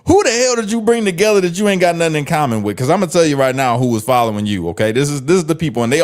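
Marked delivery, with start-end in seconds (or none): 0.1-2.8 high-pitched disbelieving interruption; incredulous outburst. Real, not acted. Commentator cutting off the politician's speech, high incredulous outburst. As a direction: break in high and incredulous, settling a little by the end.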